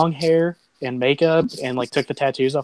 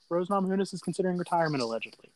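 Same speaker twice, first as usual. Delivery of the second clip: very fast talking; 3 semitones higher, faster than usual. Real, not acted. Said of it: "It's the fastest I've ever heard Chatterton talk".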